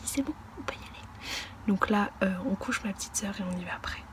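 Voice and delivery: soft late-night whisper. Real, not acted. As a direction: whisper so nobody wakes. Little sister being put to bed.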